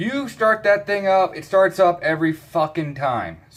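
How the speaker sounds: pissed-off griping. Setting up a tripod to film, speaking to viewers, angry. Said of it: "Sorry, I'm pissed off right now".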